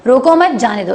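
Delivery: "रोको मत, जाने दो" run together evenly; combined phrasing. Shown as a demonstration. Host combining both halves, "रोको मत, जाने दो" in one run. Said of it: "इसको कंबाइन करके बोल दें".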